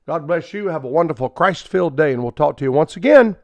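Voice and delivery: quick, brisk announcer read; radio sign-off. Acted. Radio preacher signing off to listeners, brisk announcer read. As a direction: rattle off the closing credits.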